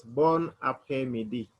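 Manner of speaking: "bon après-midi" as bon ap-hey-mee-dee; French pronunciation. Shown as a demonstration. Teacher shows beginners the afternoon greeting, French pronunciation. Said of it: "So when you pronounce it".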